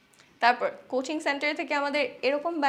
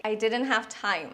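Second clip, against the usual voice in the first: slow model sentence; 2 semitones lower, much slower than usual. Shown as a demonstration. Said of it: "ইংরেজিতে বলতে পারি".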